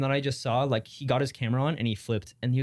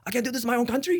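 high-pitched mock Middle Eastern accent; 10 semitones higher, faster than usual. Quoting the man at the restaurant, mock Middle Eastern accent. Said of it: "a Middle East accent".

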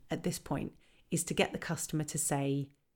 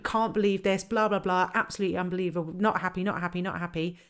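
mock irate customer; 3 dB louder than usual. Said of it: "absolutely irate".

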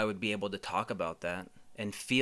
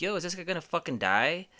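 higher, incredulous stranger's question; imitating a startled passerby; alarmed bystander; 6 semitones higher, faster than usual. Stranger passing a man puking outside, alarmed.

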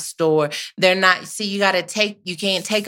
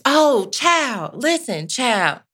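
put-on preachy oh child; 6 semitones higher, much slower than usual. Preacher-style call.

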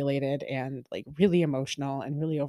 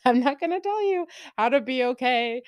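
Smeagol-like creature; 9 semitones higher than usual. Pretend. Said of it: "Smeagol-like creature".

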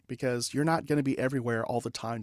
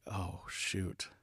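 dismayed mutter; 5 semitones lower, 11 dB quieter than usual. Retold or imitated. Reacting to being told off.

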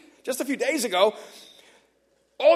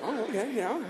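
pleasantly surprised; 6 dB quieter than usual. Retold or imitated. Neighbour hearing an offer above expectations, softly surprised. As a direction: let the voice lift lightly while playing it cool.

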